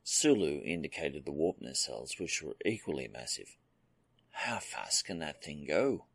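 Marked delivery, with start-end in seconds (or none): 4.3-6.1 thoughtful. Acted. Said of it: "he asked thoughtfully".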